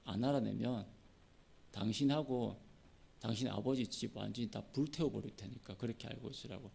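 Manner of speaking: low, hushed intimidation; acted-out threat, kept low and soft; threatening. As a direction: quietly lean on someone with menace. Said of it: "삼손의 아내를 막 협박합니다".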